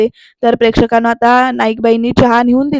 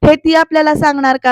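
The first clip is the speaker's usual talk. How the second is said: mildly annoyed retort; a touch of indignation; irritated; 2 semitones higher, 3 dB louder than usual. Acted. Daughter objecting to being told how to behave, mildly irritated. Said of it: "असं चिडून बोलते बरं का".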